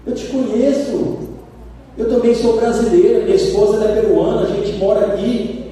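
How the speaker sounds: voiced high and quick, a man thrilled to meet the pastor; eager Brazilian churchgoer. Man in a shopping mall spotting the visiting pastor, eager and high. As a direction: greet the pastor like an excited fan. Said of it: "abordou o pastor e falou".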